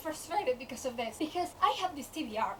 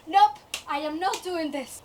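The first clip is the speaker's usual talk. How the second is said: louder, emphatic mock refusal; firm refusal; 5 dB louder than usual. Reader quits two pages in, firm refusal. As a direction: put your foot down.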